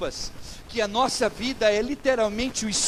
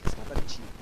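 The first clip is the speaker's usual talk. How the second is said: whispered thought; 11 semitones lower, 4 dB quieter, much faster than usual. Retold or imitated. Voicing a private suspicious thought.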